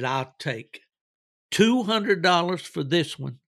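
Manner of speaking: name the prices like a trader who means it; auctioneer naming his price. Retold or imitated. Hound seller calling out his asking prices, rising to loud. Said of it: "he begins his speech like this".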